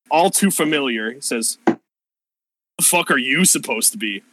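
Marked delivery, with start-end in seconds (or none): 1.7-4.2 different voice. Acted. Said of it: "That's not his voice".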